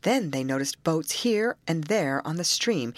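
ordinary delivery

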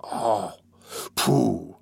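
low-key dismissive scoff; scornful. A narrator's reading. Fagin dismissing the girl's outburst, scornful. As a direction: brush it off with understated scorn. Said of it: "said the Jew scornfully".

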